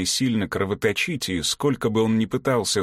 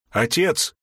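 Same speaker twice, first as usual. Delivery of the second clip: desperate shout; 7 semitones higher than usual. Acted. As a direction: cry out to father in panic. Son crawls to dying father.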